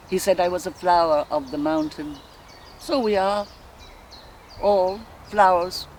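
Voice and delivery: musing woman's dramatic monologue, long pauses; Molly Bloom. Acted. A wife recalling her courtship aloud, dreamy reverie with flashes of defiance. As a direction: drift from memory to memory, savouring each.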